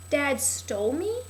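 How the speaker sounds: slow, questioning daughter imitation; mock disbelief. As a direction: act out a stunned reply, drawn out. Voicing the daughter's shocked reply.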